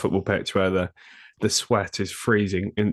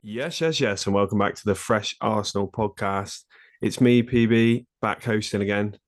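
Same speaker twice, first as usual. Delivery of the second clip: nasal voice. Real, not acted. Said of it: "forgive my nasal sounding voice".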